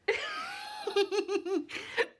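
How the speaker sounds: talking through hiccups; hiccupping between words. Real, not acted. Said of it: "I have the hiccups".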